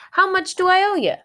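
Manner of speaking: high, loud, fast delivery guy. Acted. Delivery guy at the door asking for his money. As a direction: rattle off the bill like a pizza man. Pizza delivery man speaks.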